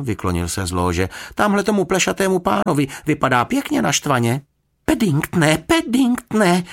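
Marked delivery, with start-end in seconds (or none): 1.3-4.4 put-on excited, high-pitched boy reporting trouble; exclaiming. A narrator's reading. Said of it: "vykřikl Jonatán". 4.8-6.6 high, loud dismayed cry, last name drawn out; unhappy calling. A narrator's reading. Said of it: "nešťastně se na něj podívala".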